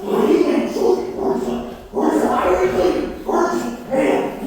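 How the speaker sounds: whispered, breathy mock hydrogen. Comedian whispering as the hydrogen character. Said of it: "He's always like".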